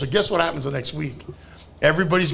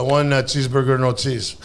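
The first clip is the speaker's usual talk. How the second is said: low-pitched acted customer order; restaurant customer; 6 semitones lower than usual. Customer ordering at the burger counter, low acted voice. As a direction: put on a lower accented customer voice.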